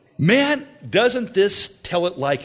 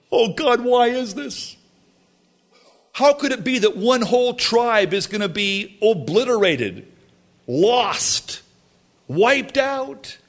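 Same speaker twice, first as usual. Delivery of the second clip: high, loud crying out to God; loud wailing lament; 7 semitones higher than usual. Acted. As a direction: wail it like a grieving crowd, rising to a peak. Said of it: "or loudly".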